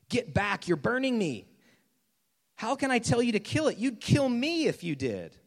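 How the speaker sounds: high, urgent protest; panicked ghost. Acted. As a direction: back away and protest in alarm. Acted ghost panics at the burning angel.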